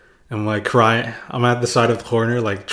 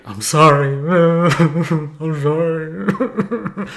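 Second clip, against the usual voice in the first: laughing apology; 6 semitones higher, much slower than usual. Retold or imitated. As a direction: apologise while cracking up. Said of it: "So I'm like".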